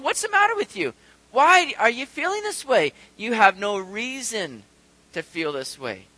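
pulling himself up sharply; talking sternly to himself. Acted. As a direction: challenge yourself out of the gloom, loudly. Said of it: "the psalmist is talking to himself".

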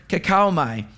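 kakaomai said carefully, syllable by syllable, falling at the end; Greek word. Shown as a demonstration. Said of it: "he uses this Greek word".

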